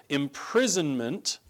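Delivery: "imprisonment" picked out with emphasis; stress on imprisonment. Real, not acted. Preacher reads Paul's warning to the church, stressing "imprisonment". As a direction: lean on the word "imprisonment". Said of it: "I emphasize that word imprisonment".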